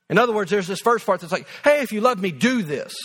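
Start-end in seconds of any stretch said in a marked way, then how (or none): 1.6-2.9 "do this" set down as the firm point; stress on DO THIS. Shown as a demonstration. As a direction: land the weight on "do this". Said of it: "the emphasis is on the second part".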